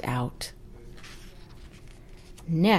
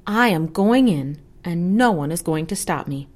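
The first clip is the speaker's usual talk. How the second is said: determined announcement; 3 dB louder than usual. Acted. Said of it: "she announced".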